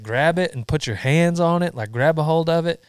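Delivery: retold yelling. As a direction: drill it in like a yelling father. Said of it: "my old man yelling at me".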